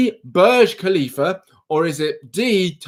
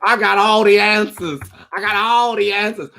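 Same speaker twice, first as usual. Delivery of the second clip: mock smug boast; 4 semitones higher, 3 dB louder than usual. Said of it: "she's like".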